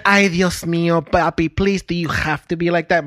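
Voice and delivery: lightly voiced exasperated Spanish-speaking mother; pleading mama. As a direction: imitate a mama begging her husband to behave. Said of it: "my mama be like".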